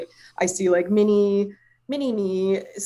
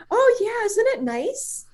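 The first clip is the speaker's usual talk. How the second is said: very high, slow, lilting sweetness; breezy delight; slower than usual. Retold or imitated. Healer answering astonished client, breezily pleased. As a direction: imitate someone blithely unfazed.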